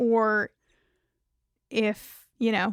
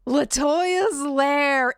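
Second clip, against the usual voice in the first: announcer; much slower than usual. Acted. Announcing the new segment title.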